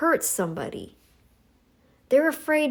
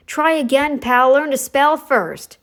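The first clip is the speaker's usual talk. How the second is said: sarcastic retort; 3 semitones higher, 6 dB louder than usual. Real, not acted. Mocking a commenter's spelling.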